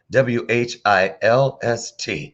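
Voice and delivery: W H I L S T spelled out slowly; spelled out letter by letter. Shown as a demonstration. Host spelling W H I L S T out to the audience, slow. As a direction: spell W H I L S T out one letter at a time. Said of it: "oh, whilst".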